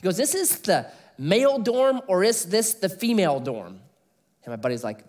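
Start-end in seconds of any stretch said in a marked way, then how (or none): 0.2-3.8 curious visitor. Retold or imitated. Billy asks about dorm.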